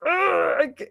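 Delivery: high-pitched, frantic restarting; mock overwhelmed. Acting out trying to explain the case, overwhelmed. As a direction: act out being swamped by too much to explain. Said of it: "it's just impossible".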